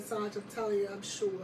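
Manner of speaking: low, soft retold assurance; quiet insistence. Soldier assuring her sergeant, low quiet insistence. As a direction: insist softly, voice dropped low.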